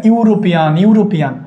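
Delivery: ইউরোপিয়ান opening on a clear "yu"; initial "yu" sound. Shown as a demonstration. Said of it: "ইউ sound আসে". (ইউরোপিয়ান-এর শুরুতে স্পষ্ট ইউ ধ্বনি)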